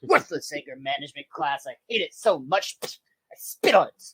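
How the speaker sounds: bad German accent. Coach grumbling about the class in a German accent. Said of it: "do a bad German access, accent".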